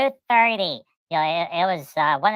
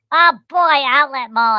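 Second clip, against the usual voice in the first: higher, louder, slow thrilled exclamation; excited outburst; 6 semitones higher, 7 dB louder than usual. Retold or imitated. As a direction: gush over the outlet mall. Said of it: "and Pudgy's like".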